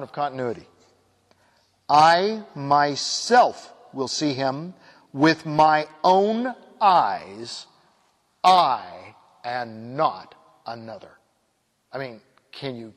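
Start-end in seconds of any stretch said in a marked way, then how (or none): 1.9-11.1 slow, deliberate, each I pressed hard; emphatic scripture. Shown as a demonstration. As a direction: press every I, as if swearing it. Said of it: "that is so emphatic".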